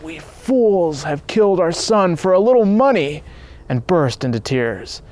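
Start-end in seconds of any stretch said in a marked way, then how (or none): 0.0-3.2 anguished exclamation. A narrator's reading. Father blaming himself for his son's death, anguished exclamation. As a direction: cry out in self-reproach. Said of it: "He exclaimed".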